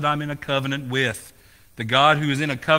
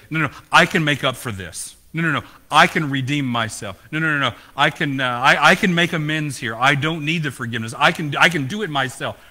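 louder, insistent self-justifying voice; the sinner who insists he can fix it; hammed-up stubborn protest; 5 dB louder than usual.

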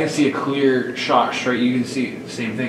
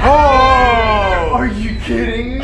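high loud surprised cry; startled shout; 11 semitones higher, 7 dB louder, much slower than usual. Real, not acted. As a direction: yelp in disbelief. Device spikes, startled shout.

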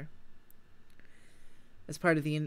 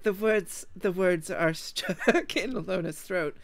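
laughing; 3 semitones higher, 4 dB louder, slower than usual. Real, not acted. Laughing while narrating.

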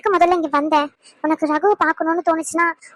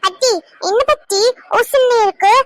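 put-on a lightly higher little boy asking gently; child voice; 4 semitones higher, 3 dB louder than usual. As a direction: play a small boy worried for grandma. Child Roshan again.

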